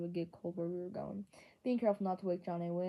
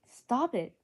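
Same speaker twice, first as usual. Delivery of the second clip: loud, strained gasp through clenched teeth; 5 semitones higher, 9 dB louder than usual. A narrator's reading. Johnny cuts off his friend with a strained gasp. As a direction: force it out through gritted teeth. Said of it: "Johnny gasped from between clenched teeth".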